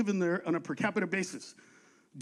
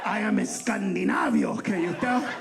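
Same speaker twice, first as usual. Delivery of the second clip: mock Scandinavian accent; 3 semitones lower, slower than usual. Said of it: "By the accent".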